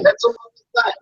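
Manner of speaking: mocking high-pitched repeat. Real, not acted.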